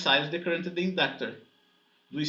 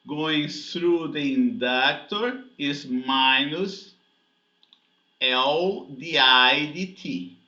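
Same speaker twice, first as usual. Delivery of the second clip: slow, deliberate and louder on "minus L di D T"; emphasizing the formula; 4 dB louder, slower than usual. Shown as a demonstration. Physics teacher stressing the inductor term to the class, slow and emphatic. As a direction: spell out "L di D T" slowly, each piece hit firmly. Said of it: "I'm emphasizing that".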